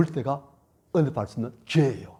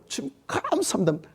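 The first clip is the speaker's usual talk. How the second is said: forced thanks; 11 semitones higher than usual. Acted. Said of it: "그래도".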